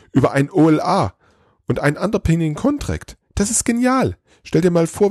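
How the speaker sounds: high, eager little elf voice; excited little elf lecturing Santa on processes. A narrator's reading. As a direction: rattle it off like a keen helper. Elf voice held for long run.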